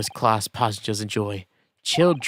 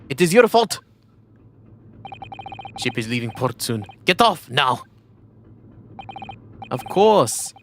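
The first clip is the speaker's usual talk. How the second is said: grand detective voice; 3 semitones higher than usual. Acted. Playing a grand detective confronting.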